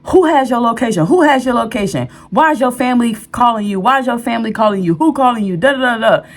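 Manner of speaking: mock-yell the accusations, pressing and fast; retold angry yelling. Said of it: "cursing me out, yelling at me".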